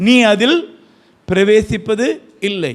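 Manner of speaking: loud, slow divine verdict; stern voice of God. Acted. God denying Moses entry, stern and slow. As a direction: pronounce the ban heavily and slowly.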